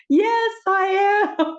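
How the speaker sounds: high, slow, small mock-scared voice; sheepish admission. Admitting to Jesus on the beach that she's scared, high and small. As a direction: confess it like a nervous kid.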